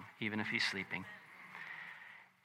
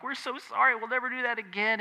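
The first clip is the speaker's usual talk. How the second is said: higher-pitched soothing apology; retold parent's consoling apology; comforting; 5 semitones higher, 3 dB quieter than usual. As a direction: soothe an upset child, voice lifted. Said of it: "we were comforting her".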